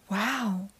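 a soft, hushed wow; whispered wow. Acted. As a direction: breathe it out in awe. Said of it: "whispered Kairi".

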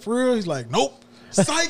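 high teasing psych; sing-song high taunt; mock taunt. Manager tricking the worker, high and teasing.

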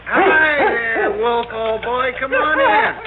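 high, loud, delighted hello to the dog; light up as the dog bounds in; excited greeting. Acted. Harvey greeting his dog Wolf at the door, excited and high.

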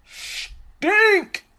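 drawn-out, high-pitched STINK; emphatic exclamation. Real, not acted. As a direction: stretch the opening of "Stink" and pop it high.

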